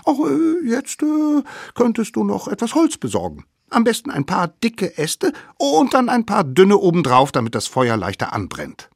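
put-on sly children plotting a trick; high scheming kid voice; little wild kids.

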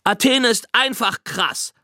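high, gushing schoolboy blurting; high-pitched eager chatter; Owen. A narrator's reading. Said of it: "plapperte Owen drauf los".

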